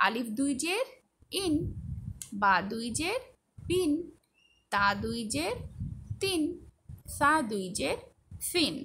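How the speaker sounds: rising জের answered by ইন, বিন, তিন; measured drill, lift জের then drop on the syllable ফিন; spelling recitation. Shown as a demonstration. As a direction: recite each letter with দুই জের, pause, add the -in sound as in বিন. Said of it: "সবগুলোর পরেই ইন যুক্ত হবে".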